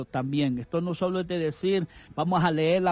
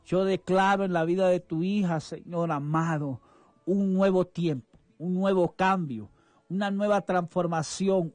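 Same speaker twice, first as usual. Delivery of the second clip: fervent prayer. Acted. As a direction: pray it over her like a blessing. Radio pastor prays for a listener.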